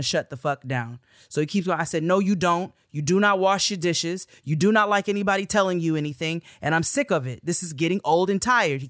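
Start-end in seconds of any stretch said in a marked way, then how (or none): 2.0-8.8 louder, firm scolding; telling off a classmate who won't wash dishes, heated; heated retort. Retold or imitated. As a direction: lay into him, fed up. Retold argument with classmate.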